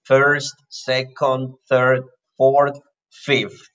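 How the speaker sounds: one ordinal at a time, evenly separated; counting ordinals. Shown as a demonstration. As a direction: list them like a teacher, pausing between words. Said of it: "use ordinal numbers".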